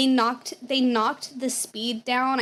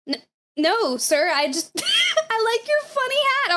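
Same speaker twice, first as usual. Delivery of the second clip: laughing nervously; 10 semitones higher than usual. Retold or imitated. Flustered reply to a trooper.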